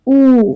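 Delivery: oo held long and lifted high; long vowel demo. Shown as a demonstration. Teacher models oo for students, long and loud. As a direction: say oo as a drawn-out pure long vowel. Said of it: "Number two".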